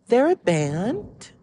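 high, slow, drawn-out question; mock a baffled coworker, rising at the end; clueless surprise. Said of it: "And she went".

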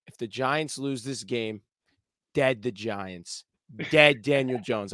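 low, slow, grave blessing; a hint of the brother's grave seriousness; solemn brother quote. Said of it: "looks me in the eyes and says".

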